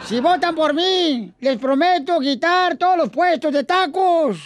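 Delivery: lightly pompous campaign orator; mock politician rallying the crowd; booming balcony speech. Mock candidate speech, Poncho Corra. (discurso de candidato pomposo)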